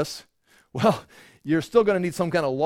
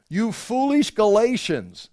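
scolding rebuke; 6 semitones higher, 3 dB louder, slower than usual. Acted. Preacher voicing Paul's rebuke.

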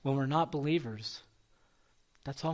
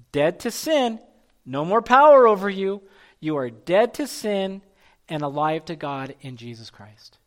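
emphatic scripture preaching; 2 semitones higher, 4 dB louder than usual. Real, not acted. Declaims scripture while preaching.

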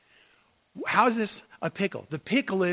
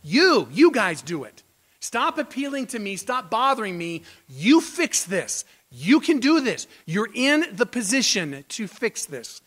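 voicing the king; 2 semitones higher, 5 dB louder than usual. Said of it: "you is in the emphatic in the Hebrew".

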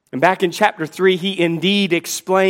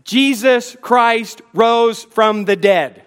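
bold proclamation; 2 semitones higher than usual. Acted. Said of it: "with audacious boldness".

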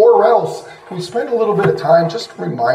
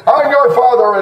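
raised, higher mock-authoritative dad; bossy father; 4 semitones higher, 4 dB louder than usual. Preacher mimicking fathers showing who's in charge, bossy. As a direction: pull rank like a bossy father. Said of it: "making sure that our families know who's in charge".

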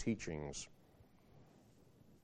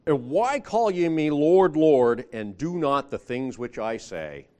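loud, slow, pleading rebuke; a preacher voicing Jesus' challenge; 3 semitones higher, 7 dB louder, slower than usual. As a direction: drag out why, then cry out Lord. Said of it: "He says".

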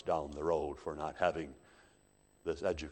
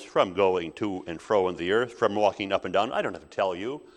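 a touch of insolence, punched louder; sassy; 6 dB louder than usual. Acted. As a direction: answer back loudly, owing no explanation. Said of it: "Satan in his sass says".

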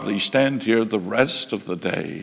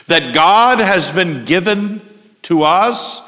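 incredulous emphasis; 6 semitones higher, 6 dB louder than usual. Real, not acted. Preacher marvels at audacious claim.

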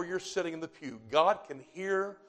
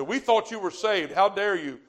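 higher, louder imitation of indignant parents; mock scolding; 5 semitones higher, 6 dB louder than usual. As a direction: act out a scowling parent's reproach. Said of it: "look at you with a scowled face and say".

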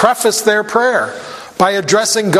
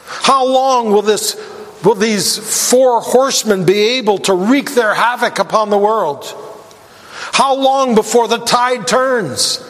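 higher, impassioned pleading; crying out for justice; 4 semitones higher than usual. Retold or imitated. The souls beg God for vengeance, higher and impassioned. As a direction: press the repeated "How long" as an urgent cry. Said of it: "They're crying out".

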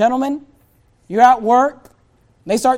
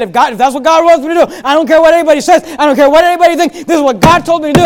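defiant prophet; 6 semitones higher, 9 dB louder, faster than usual. Retold or imitated. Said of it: "but he said".

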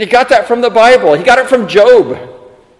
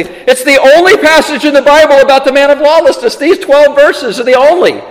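higher-pitched, emphatic declaration; bold assertion; 6 semitones higher than usual. Real, not acted. Preacher making a bold claim about the passage, emphatic. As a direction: state it boldly, pitch lifted. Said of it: "I'm gonna say boldly".

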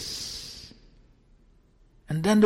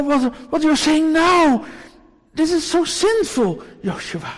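stern rebuke; 7 semitones higher, 8 dB louder than usual. Pretend. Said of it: "The Lord doesn't say to Joshua".

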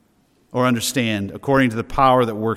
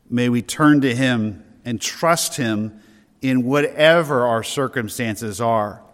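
prayerful blessing. Acted.

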